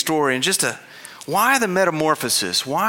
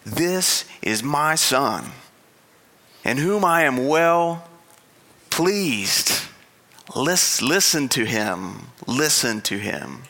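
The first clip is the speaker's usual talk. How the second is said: slow, solemn booming voice; voice of God; slower than usual. Retold or imitated. God speaking from the cloud, slow and solemn. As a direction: weigh every word like God speaking. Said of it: "a voice from the cloud says".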